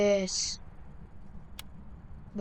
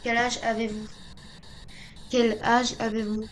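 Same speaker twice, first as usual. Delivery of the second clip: calling out to a ghost. Real, not acted. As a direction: project the question so the spirit hears.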